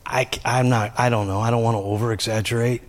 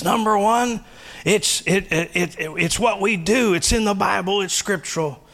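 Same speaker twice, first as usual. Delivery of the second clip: high, insistent mother voice; mother listing reasons; 11 semitones higher than usual. Acted. Mother lecturing her son, high and insistent. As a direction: count off reasons like a nagging mom. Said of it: "She says".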